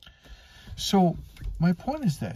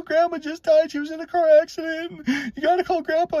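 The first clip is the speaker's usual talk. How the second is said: high-pitched imitation of a distraught kid; retold crying out; 11 semitones higher than usual. Child telling Mom that Grandma's dead, imitated crying out. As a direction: act out a child calling to Mom in alarm. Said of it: "crying out loud to Mom".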